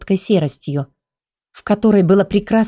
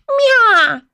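высокое протяжное жалобное мяуканье; мяукнуть жалобно, будто схватили; жалобный мяв; 3 dB louder than usual. Acted. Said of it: "жалобно бросила". (кошку схватили за шкирку: жалобное «мя»)

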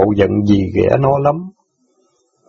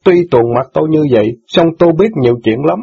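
higher, lightly voiced teen boy, hurt and reproachful; indignant boy; 6 semitones higher than usual. Son reproaches sister for forgetting jailed father, lightly voiced. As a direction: scold her like a wounded son.

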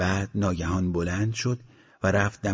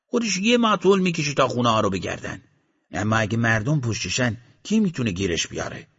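scoffing gunman; 3 semitones higher, 3 dB louder than usual. Acted. Gunman scoffs at house search.

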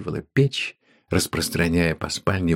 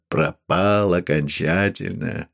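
despairing; 2 semitones lower, slower than usual. Acted. Man alone despairs.

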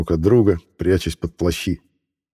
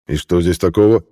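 irritated; 4 dB louder than usual. Acted. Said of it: "раздражённо ответил рыцарь".

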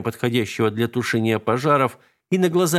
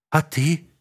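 wary; 6 semitones higher than usual. A narrator's reading. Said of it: "настороженно поинтересовалась Алинка".

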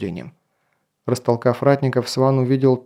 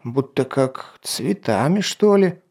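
puzzled captain; slower than usual. Acted. Captain guesses the smell.

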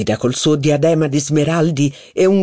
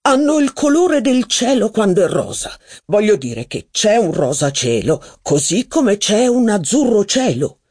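precious, raised flattering voice; lightly voiced affected aesthete; 7 semitones higher than usual. A narrator's reading. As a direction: gush like a refined snob. Legrandin elaborates his conceit.

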